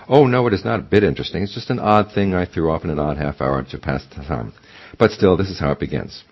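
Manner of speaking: quick, flustered denial; hurried false modesty. Acted. Badger's modest protest.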